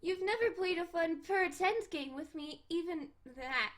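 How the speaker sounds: high, pouty complaint; whiny cat girl. Acted. Cat girl complaining he never plays pretend, pouty. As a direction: whine it like a bored kitten. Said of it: "I should emphasize the cat puns".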